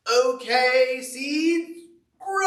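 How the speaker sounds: loud, high command, rising on grow; shouting at seeds. Acted. Toad ordering his freshly planted seeds to grow, loud call. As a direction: bark it at the ground like an order.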